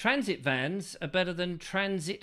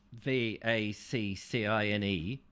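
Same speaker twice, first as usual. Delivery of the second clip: letter by letter, slow and lower; spelled out slowly; 5 semitones lower, slower than usual. Real, not acted. Host spells a touchy word for listeners, slow and deliberate. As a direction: spell it out deliberately, low and measured.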